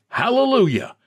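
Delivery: pious high-pitched exclamation, falling at the end; fervent worshipper. Acted. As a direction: call it out high from the pews. Congregation's responses voiced in story.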